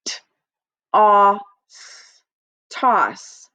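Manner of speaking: T, a, s sounded out, then blended into toss; tapping out sounds. Shown as a demonstration. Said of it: "Let's read this one".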